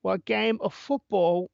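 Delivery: playful put-on Cockney Irish lilt; sportscaster hamming a Cockney Irish accent; a loose Cockney Irish accent, half British; mock Cockney Irish accent. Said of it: "more of a Cockney Irish accent".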